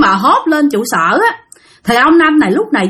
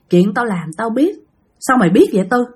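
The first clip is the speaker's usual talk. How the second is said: possessed mutter. Retold or imitated. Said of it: "mượn cái khẩu của ổng mà nói".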